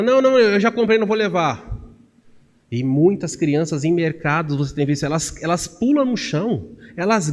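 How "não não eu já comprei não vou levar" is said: mother refusing, raised and higher; firm mother. Retold or imitated. Mother at the checkout refusing her child, raised voice. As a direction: mom cutting off the child's begging. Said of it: "a mãe fala".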